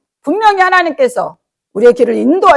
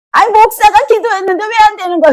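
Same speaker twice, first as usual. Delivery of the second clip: higher, louder mock whine at the pastor; complaining; 9 semitones higher, 5 dB louder than usual. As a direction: demand answers like a grumbling man. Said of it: "어떤 남자분은". (불평하는 남자 신도를 흉내 내며 따지듯)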